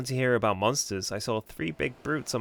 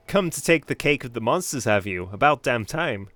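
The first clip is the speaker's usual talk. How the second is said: gruff fisherman voice; 6 dB louder than usual. Pretend. Voicing the fisherman NPC.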